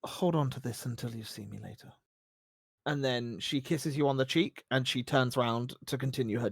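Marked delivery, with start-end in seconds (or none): 0.0-1.9 low, soft in-character murmur; tender parting. Acted. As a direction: hand it over gently and quietly. Voices tender parting in game.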